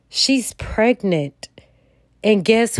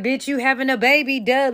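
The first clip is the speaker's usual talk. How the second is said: rude doctor; 4 semitones higher, faster than usual. Retold or imitated. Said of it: "He like".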